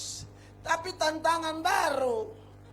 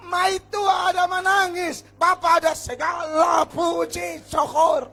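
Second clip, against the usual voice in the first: loud, high preaching shout; full-force preaching; 5 semitones higher, 10 dB louder than usual. Acted. Preacher shouting to the congregation, full-force preaching. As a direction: preach it out to the whole church.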